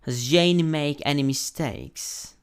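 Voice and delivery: "Has Jane made any mistakes" said slowly and carefully; repeat-after-me "Has Jane made any mistakes", drawn out; slow classroom model of "Has Jane made any mistakes"; pronunciation model. Shown as a demonstration. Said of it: "estudiar un poco la pronunciación".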